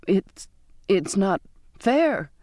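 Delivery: slow, halting stammer. Acted. Girl protesting to the captain, a slow stammer. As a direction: stumble nervously over the first words. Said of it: "I stammered".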